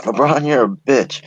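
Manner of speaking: a hint of a jeering fan; heckling fan. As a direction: taunt him like a fan courtside. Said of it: "one of the fans is like".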